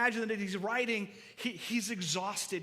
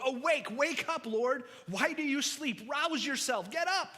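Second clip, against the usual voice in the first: mounting desperate appeal; pleading call; 5 semitones higher than usual. Acted. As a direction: cry out for God to wake up. Pleading psalm read aloud.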